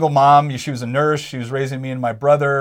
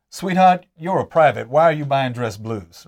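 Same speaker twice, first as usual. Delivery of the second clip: put-on a sales clerk's mild Southern accent, teasing and folksy. Store clerk teasing a broke young private, in a mild Southern accent. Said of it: "I like your Southern accent there".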